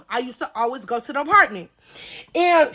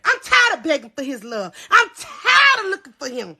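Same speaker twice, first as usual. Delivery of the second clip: hammed-up cry. Dramatic complaint.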